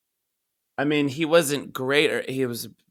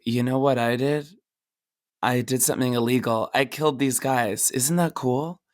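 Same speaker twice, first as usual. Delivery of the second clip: lightly acted smug boast; proud bragging; 2 semitones lower than usual. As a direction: imitate a pleased-with-himself crook. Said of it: "always really proud of themselves".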